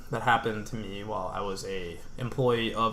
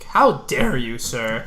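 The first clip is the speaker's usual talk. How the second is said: angry customer; 3 dB louder, much slower than usual. Retold or imitated. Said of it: "Lady just comes angry".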